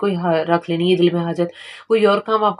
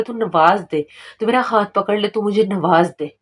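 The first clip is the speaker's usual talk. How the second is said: beggar's plea to God. Shown as a demonstration. Demonstrating to viewers how to beg God in prayer, pleading. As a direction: beg like a beggar at God's door. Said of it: "झोली फैलानी है अल्लाह के आगे".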